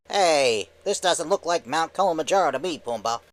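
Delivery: lightly voiced wisecracking cartoon sidekick; Timon. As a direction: grumble to your buddy in a cartoon voice. Skit voicing Timon.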